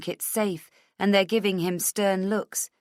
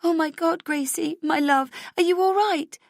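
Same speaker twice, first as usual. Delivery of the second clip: frantic relief; 11 semitones higher, 4 dB louder than usual. A narrator's reading. Mother to daughter, frantic.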